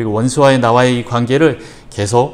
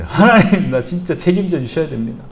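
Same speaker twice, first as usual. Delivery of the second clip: a playful hint of a threat; half-joking demand of God; mild threat; 4 semitones higher than usual. Shown as a demonstration. Pastor demonstrates half-jokingly pressing God, mild mock threat. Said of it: "약간 협박을 하면서".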